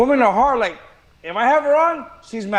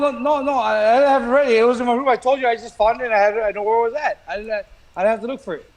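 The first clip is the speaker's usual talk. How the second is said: out of breath; faster than usual. Real, not acted. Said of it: "You're out of breath right now".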